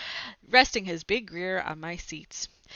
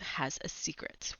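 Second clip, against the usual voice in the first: hushed whisper; whispered secret; 5 semitones lower, 11 dB quieter than usual. Acted.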